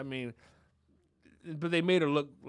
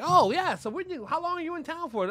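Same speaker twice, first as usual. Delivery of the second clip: high-pitched chatty gushing; mock excited; 12 semitones higher, 6 dB louder than usual. Family greets a celebrity in the elevator, mock excited. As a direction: imitate an eager family making small talk. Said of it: "they're very excited".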